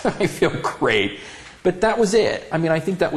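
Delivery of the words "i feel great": slow laughing repeat; laughing, satisfied. Retold or imitated. Man telling his partner after church he feels great, laughing. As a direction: savor it through a laugh. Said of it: "Dwayne said, Do you feel better".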